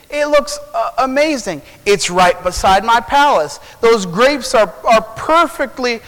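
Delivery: lightly acted, admiring gush; coveting king. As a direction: marvel at it, pitch lifted.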